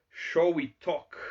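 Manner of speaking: ordinary talk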